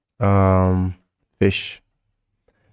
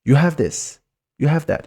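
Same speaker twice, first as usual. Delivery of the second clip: "You have this, you have that" pitched up on "have"; statement wording, lifted higher on "have" as a question; question intonation; 8 semitones higher, 3 dB louder than usual. Shown as a demonstration. Teacher showing a statement as a question, question intonation. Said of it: "but with the intonation, it's a question".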